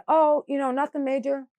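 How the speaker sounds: imitated reassurance. Staff telling worried mother about surgery, mock-casual reassurance. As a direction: lightly mimic someone downplaying bad news.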